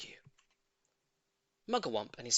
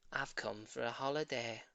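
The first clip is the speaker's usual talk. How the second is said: grand bird; 4 semitones lower, 7 dB quieter than usual. A narrator's reading. Roly-poly bird speaks grandly.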